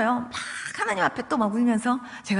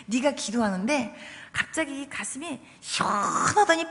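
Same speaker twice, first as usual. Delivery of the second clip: a mother's words retold with a catch of tears; tearful mother; 4 dB quieter than usual. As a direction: daughter retelling her mother's amazement, voice near tears. Mother tearfully describing healing.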